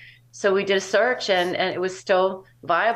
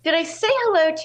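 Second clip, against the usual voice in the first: mock innocent; 13 semitones higher, faster than usual. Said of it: "I said".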